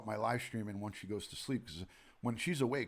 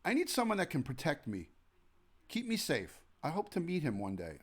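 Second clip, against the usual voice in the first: voicing the parrot; 4 semitones higher than usual. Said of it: "tell him to come and say".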